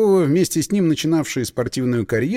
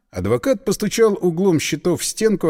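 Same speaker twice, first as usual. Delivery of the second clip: usual speaking voice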